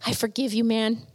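soft, subdued retold forgiveness; muttered. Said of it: "could mutter out of my mouth".

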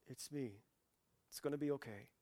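soft, soothing voice; calm, softened comfort; gentle reassurance. Acted. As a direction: reassure someone frightened, quietly. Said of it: "He responds with this famous phrase".

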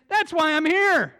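high, loud, slow and emphatic reply; Jesus answering. Retold or imitated. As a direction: land the answer with bright conviction. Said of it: "Jesus is saying".

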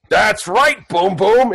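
high-pitched little sidekick voice; Creechy. Acted. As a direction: chime in high and eager. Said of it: "And then Creechy goes".

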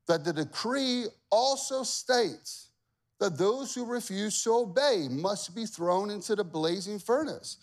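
accusing officials. Acted. Officials accusing the Jews to the king, tattling. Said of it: "They said this".

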